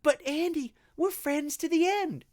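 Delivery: high-pitched little doll voice; put-on high character voice; pleading doll. Plays the doll pleading with Andy.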